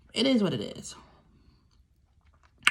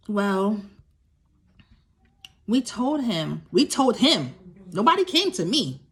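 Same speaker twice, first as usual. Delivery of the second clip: husband quoted. Retold or imitated. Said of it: "the husband says to me".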